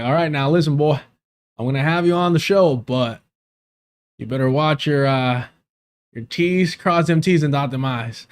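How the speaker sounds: lightly put-on Southern accent, teasing a friend; mock Southern accent. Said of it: "The man is a Southerner at heart".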